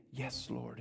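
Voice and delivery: soft whispered reply to the Lord; hushed whisper. Retold or imitated. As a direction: breathe it like a child answering God in the dark. Retold child answer to God.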